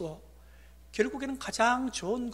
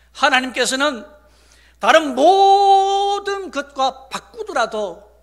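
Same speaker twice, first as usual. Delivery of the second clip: higher, louder, drawn-out key words; emphatic preaching; 10 semitones higher, 13 dB louder, slower than usual. Real, not acted. Pastor promising God never trades us away, preaching emphatically. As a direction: stretch the big words with conviction.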